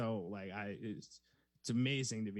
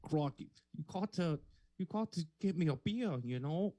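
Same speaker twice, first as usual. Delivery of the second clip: higher-pitched put-on Aussie, starting male; attempted Australian accent; 4 semitones higher than usual. Improv contestant auditioning for his co-host, shaky Australian accent. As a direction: try a wobbly Australian accent. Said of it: "give me your best Australian women's accent".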